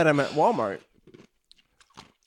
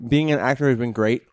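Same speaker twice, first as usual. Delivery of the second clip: louder, right on the mic; closer to the mic; 5 dB louder than usual. Real, not acted. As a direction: lean in and say it louder. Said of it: "get right in there".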